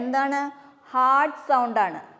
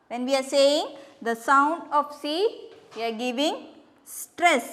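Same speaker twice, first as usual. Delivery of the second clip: slow, drawn-out teacher explanation; much slower than usual. Shown as a demonstration. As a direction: spell it out slowly for the children. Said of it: "നമ്മൾ stress ചെയ്തിട്ടാണ്".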